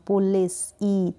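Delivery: "पुलिस" with a long ee, slowly; lengthened vowel. Shown as a demonstration. Teacher demonstrating the i sound, "पुलिस" with lengthened ee. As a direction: draw out the ee of "पुलिस". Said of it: "थोड़ा हम लंबा इसका pronunciation देंगे".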